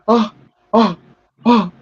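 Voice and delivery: short, separate "oh" sounds; mock reaction noises; imitated crow reaction. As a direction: punch out each "oh" with a gap. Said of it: "you just see the crow's, uh, freaking, uh, face".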